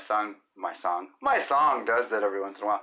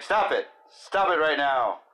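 mock stern; 4 semitones higher, 4 dB louder than usual. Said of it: "And I'm like".

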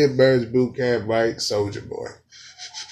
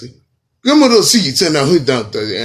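loud, higher mock dancehall delivery; a dancehall singer; 4 semitones higher, 8 dB louder than usual. Comic mimicking singer's lyrics, loud mock dancehall voice. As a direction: holler it like a parodied dancehall star. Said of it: "We want Sean Paul".

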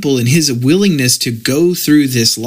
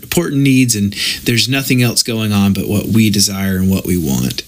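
dry sarcasm about our wants; sarcastic; 3 semitones lower, faster than usual. Shown as a demonstration. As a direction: say it with heavy sarcasm. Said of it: "I'm obviously being extremely sarcastic".

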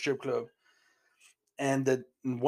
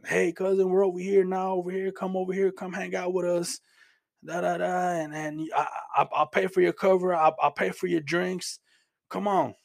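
higher-pitched, insistent phone invitation, retold; retold coaxing; 4 semitones higher than usual. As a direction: imitate a cousin urging you to come out. Cousin phones, coaxing him over.

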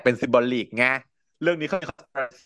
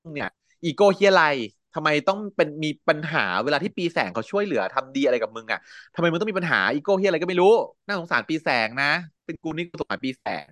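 higher, mock exasperated telling-off; scolding a friend; 4 semitones higher than usual. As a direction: scold him like a fed-up friend. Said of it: "แล้วก็ด่าบอกว่า". (ด่าเพื่อนเสียงสูงแบบหงุดหงิด)

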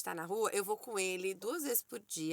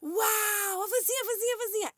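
put-on high, amazed kid shout, much higher; imitating her toddler son; 10 semitones higher than usual. Mother imitating her son's delight at vans, high kid shout. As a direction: cry out like a toddler seeing a van. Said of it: "Toda vez, é tipo".

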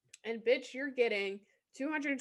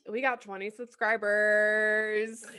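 proud announcement; 3 dB louder, slower than usual. Real, not acted.

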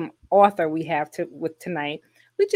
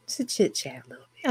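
whispering; 4 dB quieter, faster than usual. Real, not acted. Pre-show aside, whispered.

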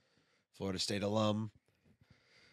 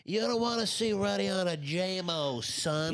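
hype yell; 9 semitones higher, 4 dB louder, slower than usual. Acted. Hyping each other up, yelling.

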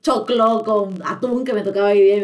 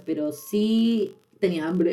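laughing; much slower than usual. Real, not acted. Punchline after denying fainting.

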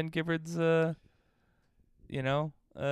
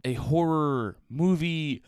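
spooky announcer; 4 semitones higher, much slower than usual. Acted.

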